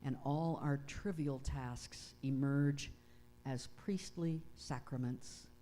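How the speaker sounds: slow, measured prayer with long pauses; unhurried, solemn address to God; prayer reading. Acted. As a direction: read a prayer reverently, phrase by phrase. Reads one of MacLeod's prayers aloud.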